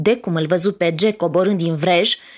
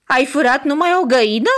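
disappointed; 6 semitones higher, 3 dB louder, faster than usual. Acted. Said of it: "îl întrebă dezamăgită".

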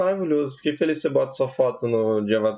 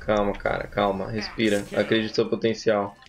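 soothing; 4 semitones lower than usual. Pretend. Mock calming a player.

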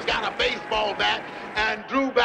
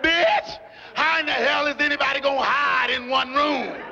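exasperated retort; 3 semitones higher than usual. Retold or imitated. Lover told to hide in one room, mock exasperated. Acted alarm as husband knocks.

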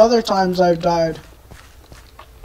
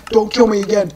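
softer, spent repeat; deflated plea; 2 semitones lower, 5 dB quieter, much faster than usual. Real, not acted. Player giving up, deflated plea. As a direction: drop out of screaming into weary pleading. Resigned after screaming.

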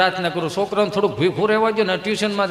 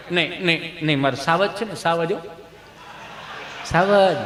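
softer, lightly acted consoling; soothing parent; 3 semitones lower, 5 dB quieter than usual. Mother dusts off fallen child's clothes, consoling. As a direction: hush the fallen child fondly.

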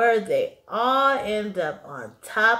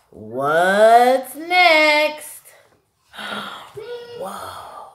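playful wonder; 2 semitones higher, 4 dB louder, much slower than usual. Real, not acted. Reader acts wonder for child.

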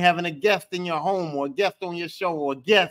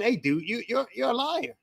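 mock accusing interviewer; 4 semitones higher than usual. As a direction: play the interviewer calling him a crook to his face. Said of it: "They were saying".

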